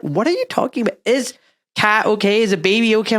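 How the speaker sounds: high-pitched worried questioning; baffled parents. Retold or imitated. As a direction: imitate confused parents, pitched well up. Voices baffled parents questioning son.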